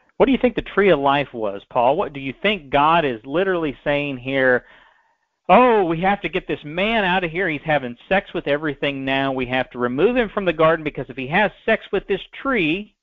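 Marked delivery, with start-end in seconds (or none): none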